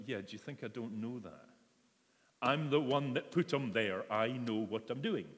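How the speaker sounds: mildly sarcastic comeback; imagined snappy answer from the Lord. Retold or imitated. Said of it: "I would have answered sarcastically".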